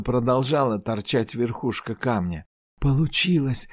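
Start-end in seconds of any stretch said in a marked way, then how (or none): 2.8-3.7 triumphant. Acted. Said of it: "торжествующе сказала Айжар".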